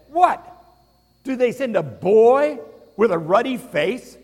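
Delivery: Goliath jeering at David across the valley; taunting giant. Acted. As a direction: sneer down at the boy.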